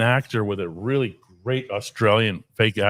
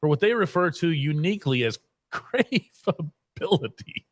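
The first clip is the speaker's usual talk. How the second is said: laughing; 4 semitones higher than usual. Real, not acted. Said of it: "I can't do this with".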